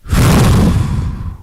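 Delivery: long exhale of cigarette smoke; imitated smoke puff. Lifter acts out Donnie smoking beside him, long puffing exhale. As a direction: blow out an imaginary drag, long and steady. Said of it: "he's taking a puff like Peaky Blinders".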